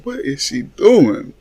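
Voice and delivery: playfully incredulous, stretched question; recalled disbelief. Retold or imitated. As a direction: draw it out in mild mock dismay. Repeats the baffled reaction.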